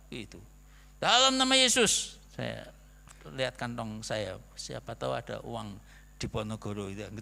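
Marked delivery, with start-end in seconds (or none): 1.0-2.2 loud, high, pleading prayer to God; fervent prayer. Retold or imitated. Thirsty on the train, begging God for tea: loud fervent plea. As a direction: cry out to the Lord, begging for a drink. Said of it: "saya berdoa sungguh-sungguh".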